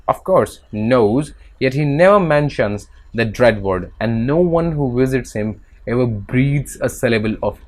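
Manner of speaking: slow, careful text reading; measured classroom reading; reading aloud. Acted. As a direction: read it out slowly like a passage. Reads English text aloud.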